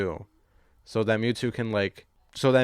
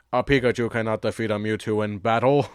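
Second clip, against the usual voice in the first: imitating Mewtwo. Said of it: "It just sounds exactly how you said it".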